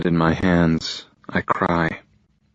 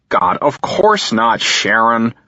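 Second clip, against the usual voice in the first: condescending; 4 semitones higher, 4 dB louder, slower than usual. Acted. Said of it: "his condescending tone".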